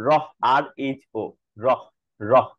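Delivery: রহ flapped with a breath of air after it; a breathy flap on রহ; aspirated ঢ়. Shown as a demonstration. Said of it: "এর উচ্চারিত রূপটা".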